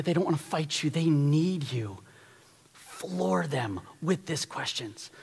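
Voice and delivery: slow, soft earnest plea; tender plea. Acted. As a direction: plead gently for them. Tender plea about single parents.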